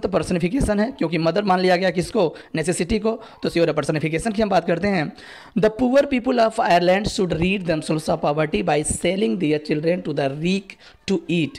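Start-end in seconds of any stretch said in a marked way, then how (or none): 5.6-11.6 slow, careful quiz-question reading; slow dictation read. Acted. Teacher reading the exam question aloud to students, slow and careful. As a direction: spell it out slowly for the class.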